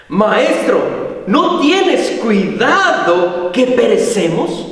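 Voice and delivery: slow, drawn-out plea to the master, acted; mild retold cry of distress; anguished plea. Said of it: "fue una angustia, un clamor".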